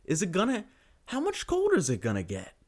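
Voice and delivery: a shivering Minnesotan freaking out about the cold; freezing Minnesotan. Retold or imitated. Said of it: "You'd be like".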